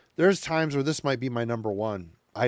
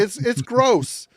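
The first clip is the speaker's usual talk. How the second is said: drawn-out disgust; 8 semitones higher, 4 dB louder, much slower than usual. Real, not acted. Disgusted at album cover.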